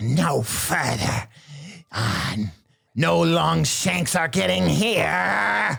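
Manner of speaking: high, rough, cackling goblin voice, dragged out. Narrating the game, the speaker voices a goblin calling out as the party enters, Gugmort's wicked cackling goblin voice. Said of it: "a wicked goblin's voice that cackles out".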